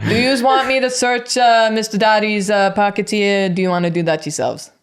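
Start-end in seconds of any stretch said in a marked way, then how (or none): 0.1-3.5 villain voice. Acted. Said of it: "Julia is doing a villain voice for you".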